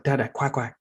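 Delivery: imitating a toddler, slightly high; lightly voiced little child asking for a treat. Son asks dad for crackers, imitated toddler voice. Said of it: "he's like".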